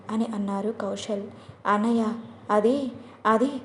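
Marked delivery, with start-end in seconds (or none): 1.7-3.5 a touch of hesitant stammering; hesitant mumbling. Acted. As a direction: trail off, afraid to say it. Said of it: "నసుకుతూ".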